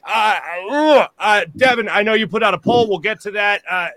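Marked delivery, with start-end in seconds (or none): 0.7-1.1 a groan of disgust. Real, not acted. Host reacting to his team's defeat, disgusted groan. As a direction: groan at a bad loss. Groans over the Eagles' loss.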